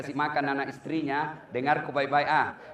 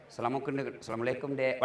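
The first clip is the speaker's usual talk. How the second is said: firm greeting; 3 semitones lower, 6 dB quieter, faster than usual. Retold or imitated. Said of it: "Coba kalau aku tegas".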